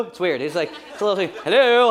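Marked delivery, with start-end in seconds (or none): 1.4-1.9 loud, lilting, drawn-out hello; sing-songy hello. Retold or imitated. Dad answering the phone, sing-songy. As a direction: sing out the greeting. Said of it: "sing-songy thing he does".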